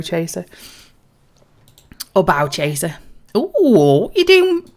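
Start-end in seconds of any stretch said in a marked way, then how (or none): 3.3-4.7 high, slow slurring halfling; a tipsy little halfling, higher and louder; drunken halfling. Acted. Halfling crewman greets the stranger, high and drunk. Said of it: "drunken halflings".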